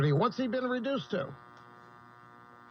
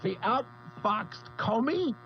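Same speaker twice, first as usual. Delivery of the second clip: laughing through pain; 4 dB quieter, slower than usual. Real, not acted. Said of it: "it hurts to laugh".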